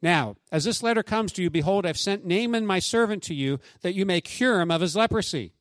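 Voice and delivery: measured, earnest Bible reading; scripture reading. Acted. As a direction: read the passage aloud to the congregation. Pastor reads Naaman scripture passage aloud.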